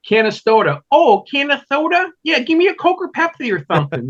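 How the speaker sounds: high, puzzled voice asking about the town; mimicking a confused friend. Friend mocking the town name, high and puzzled. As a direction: play the baffled buddy who thinks Canastota is a drink. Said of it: "He's like".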